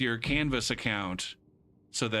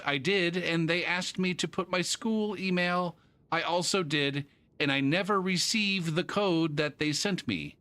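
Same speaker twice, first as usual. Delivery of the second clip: higher mock-reading voice; reading student email; 5 semitones higher than usual. Teacher reading out a student's email, higher. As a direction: recite the student's words with amused precision. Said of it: "He's sending me an email".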